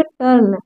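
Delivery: "टर्न" modelled as "tarn"; teacher's demo of "टर्न" with an "ar" sound; U read as "a". Shown as a demonstration. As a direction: say "टर्न" with a short a before the r. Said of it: "इसको पढ़ेंगे".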